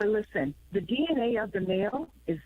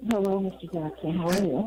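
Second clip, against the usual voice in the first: on speakerphone; 2 semitones lower than usual. Real, not acted. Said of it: "sound like you're on speakerphone".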